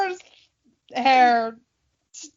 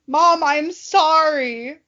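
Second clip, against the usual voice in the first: mock child apology; 3 semitones higher, 3 dB louder, slower than usual. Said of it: "pretending to apologize to mom".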